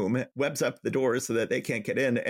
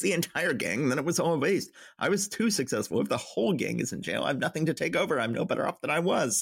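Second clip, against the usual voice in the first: tag villain dismay; 4 semitones higher than usual. Retold or imitated. Villain learns his gang was arrested.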